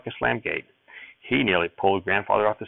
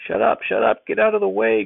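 much higher, louder rasping yell; angry yell; 4 dB louder than usual. A narrator's reading. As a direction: bark the boy out of the way. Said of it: "Grandfather yelled back".

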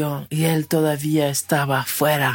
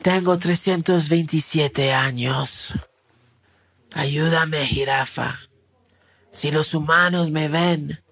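put-on grumpy old crocodile; 3 semitones lower than usual. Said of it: "El crocodilo de mal humor le dijo".

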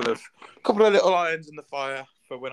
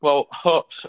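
put-on Yorkshire accent; 6 dB louder, slower than usual. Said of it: "I was doing it in a Yorkshire accent".

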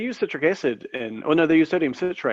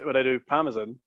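Italian accent; 3 dB quieter than usual. Shown as a demonstration. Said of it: "that was just my Italian accent just then".

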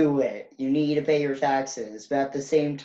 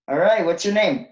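interviewer voice; 4 semitones higher, 7 dB louder than usual. Retold or imitated. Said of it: "It's gonna be like".

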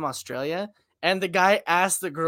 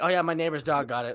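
imitated offhand, softer delivery; nonchalant; 2 semitones lower, 5 dB quieter than usual. Retelling a buddy explaining his missing toe, nonchalant. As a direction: toss it off softly as if it were nothing. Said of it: "like, nonchalantly threw it out there".

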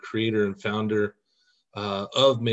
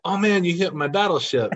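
higher-pitched playful exclamation of defeat; mock-dismayed dad; 7 semitones higher than usual. Dad losing at Battleship to his son, mock dismay. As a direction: act out a dad's playful dismay. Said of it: "And he's like".

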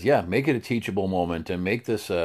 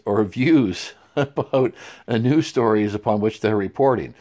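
chuckling through the words; laughing while trying to stay serious. Real, not acted. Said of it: "I can't even say this with a straight face".

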